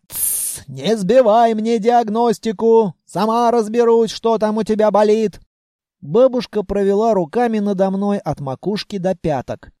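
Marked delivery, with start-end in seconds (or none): 0.1-0.6 unvoiced shushing sound; hushing. Grandmother hushing Vanya mid-sentence. 0.7-5.4 put-on raised, scolding old granny voice; scolding grandmother. Grandmother scolding Vanya after the explosion, raised.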